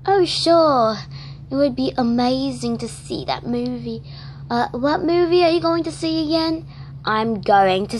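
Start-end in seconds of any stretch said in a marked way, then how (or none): 0.1-6.6 a second doll answering in a higher, eager voice; light, higher-pitched doll friend. Acted. One doll accepts the other's movie invite in a higher, eager voice.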